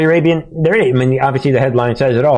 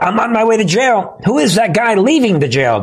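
higher, mock-bewildered everyman; mock panicked citizen; 7 semitones higher than usual. Mocking a lawnmower owner sent to jail, high and bewildered. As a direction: play the baffled guy hauled off to jail.

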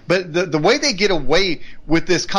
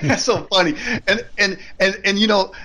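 laughing; 3 semitones higher than usual. Real, not acted. Laughing at the joke.

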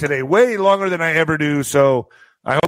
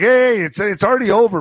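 acted protest; 5 semitones higher than usual. Protesting to the police.

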